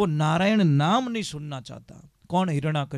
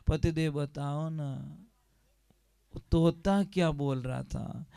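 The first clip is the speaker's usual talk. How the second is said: coaxing wife; 5 dB quieter than usual. Acted. Wife coaxing husband again.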